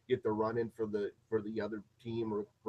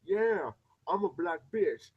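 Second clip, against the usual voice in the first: mocking reality-show girl; 8 semitones higher, 7 dB louder than usual. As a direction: ham up a reality-TV diva acting gangsta. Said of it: "there's this girl called Hazy".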